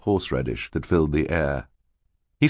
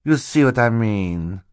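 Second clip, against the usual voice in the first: higher, slower, knowing aside; false Stefano; 5 semitones higher, 3 dB louder than usual. Acted. Stefano appeals to Mister Poe about Klaus, mannered. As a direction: sound smoothly long-suffering.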